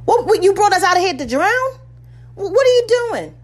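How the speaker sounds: mock-frantic people trapped at the sea; panicked Israelites. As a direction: accuse Moses as the water blocks them.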